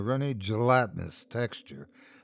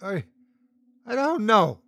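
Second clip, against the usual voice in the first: bellowing; 9 semitones higher than usual. Acted. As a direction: cry out helplessly, voice pitched up. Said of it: "started to bellow".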